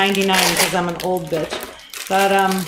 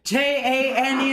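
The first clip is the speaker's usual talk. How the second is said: higher Brummie spelling-out; mock Brummie accent; 4 semitones higher, 3 dB louder than usual. Caller spelling her name in a mock Brummie accent. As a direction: spell it out letter by letter in imitated Brummie. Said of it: "Birmingham accent, difficult".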